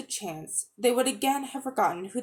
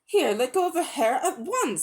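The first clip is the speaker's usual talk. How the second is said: commanding; 6 semitones higher than usual. A narrator's reading. Diggory ordering the witch off Polly, high and firm. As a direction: order her to let go now. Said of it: "said Diggory".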